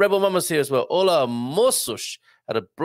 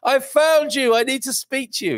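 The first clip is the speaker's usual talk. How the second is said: imitating eager fan; 11 semitones higher, 5 dB louder than usual. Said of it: "somebody tracked you down on Facebook".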